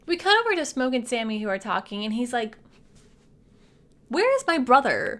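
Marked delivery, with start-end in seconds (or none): 4.1-5.2 imitated demand, punchy with swooping pitch; mock indignant demand. Smoke asking Sammy about Stack, mock indignant demand.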